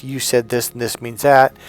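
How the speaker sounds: insistent husband arguing his point; scene: husband arguing with his wife over meaning, insistent. Retold or imitated. Mild mock argument. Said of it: "he'll argue to death".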